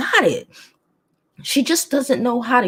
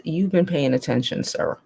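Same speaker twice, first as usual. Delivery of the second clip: new calm voice; 3 semitones lower, 3 dB quieter than usual. Shown as a demonstration. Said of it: "It's my new voice".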